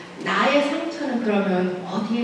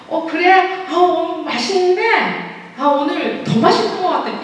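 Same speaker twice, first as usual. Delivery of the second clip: cheerful praise; 8 semitones higher, 3 dB louder than usual. Pretend. Husband praising wife's cooking.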